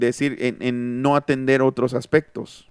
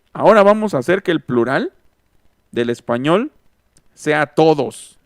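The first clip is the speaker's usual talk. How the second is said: mustache twirling villain; 5 dB louder than usual. Retold or imitated. Machos plotting to change plural.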